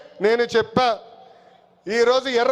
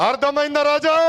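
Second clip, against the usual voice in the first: అర్థమైందా రాజా? repeated higher, teasing and mocking; mocking taunt; 4 semitones higher than usual. Real, not acted. Leader mocking his rival before the crowd, teasing taunt. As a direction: lift it up and rub it in.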